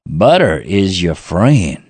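slow, low Southern drawl on butter; Paula Deen quote. Retold or imitated. Host quoting Paula Deen to his co-host, Southern accent. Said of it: "And she says".

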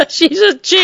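squeaky high laugh through the words. Real, not acted. Cohost giggling while calling the statue a chick, laughing high. Joking about Lady Justice statue.

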